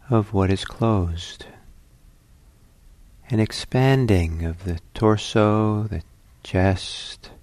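calm meditation guidance with long pauses; guided meditation. Acted. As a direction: ease listeners into the breath, leaving long silences.

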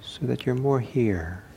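unhurried guidance with long silences; calm meditation teacher, leaving room between phrases; guided meditation. Acted. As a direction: lead the sitters gently into stillness.

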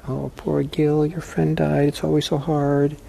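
a hint of a sulking victim voice; mock self-pity. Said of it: "I have a lot of self-pity".

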